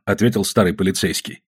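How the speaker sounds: plain reading voice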